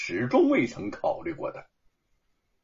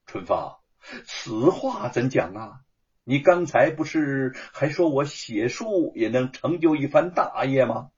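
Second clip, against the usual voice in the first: puzzled. Acted. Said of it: "吴承恩不解地说".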